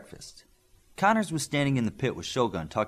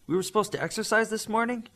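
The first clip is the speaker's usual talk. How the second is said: lightly voiced Midas; 11 semitones higher than usual. A narrator's reading.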